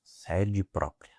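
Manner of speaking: slowly drawn-out quoted slogan; slow quote. Retold or imitated. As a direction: stretch each word out, old-fashioned slogan. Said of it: "diziam assim".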